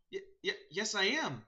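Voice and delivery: lightly voiced, high, stammering druid; startled Birdie. Birdie answering the sparrow, startled stammer.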